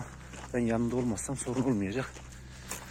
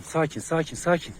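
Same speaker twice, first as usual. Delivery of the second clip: calling for calm; 6 semitones higher than usual. Real, not acted. Commanding dogs to calm down.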